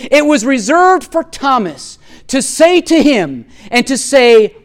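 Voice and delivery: ringing, oratorical reading with weighty pauses; declamatory quote reading. Acted. Preacher reading a great quote to the congregation, declamatory. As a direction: declaim it like a grand proclamation. Reads a long commentary quote aloud.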